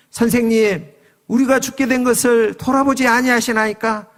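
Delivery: fearful plea. Acted. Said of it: "두려움에 휩싸여서 예수님을 깨우며".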